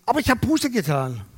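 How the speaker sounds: mild mock yell, pitch jumping up then falling; retold yell. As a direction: imitate her indignant outburst, only half shouted. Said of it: "dann schreit sie".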